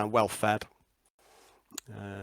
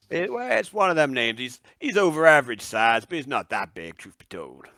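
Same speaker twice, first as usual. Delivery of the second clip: swamp dweller; 4 dB louder than usual. Acted. Answers in character as swamp dweller.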